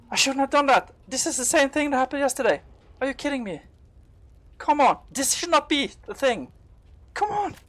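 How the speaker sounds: high, loud panicked complaining; real panic. Real, not acted. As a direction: voice jumps way up in alarm. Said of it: "I, I'm panicking".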